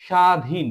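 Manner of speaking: স্বাধীন said as "shadhin"; স্বাধীন with the ব-ফলা left silent. Shown as a demonstration. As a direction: say স্বাধীন with no b or w sound. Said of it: "ব এর কোনো উচ্চারণ হয়নি".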